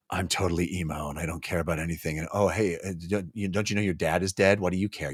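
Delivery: mock an emo girl who cares about nothing; emo drone. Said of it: "Sin is like".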